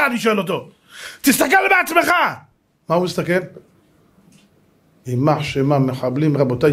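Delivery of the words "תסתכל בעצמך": high, crying retort; distraught commander. Retold or imitated. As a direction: blurt it out high, as a shaken commander. Distraught commander answering the officer. (תשובה גבוהה ונסערת של מפקד)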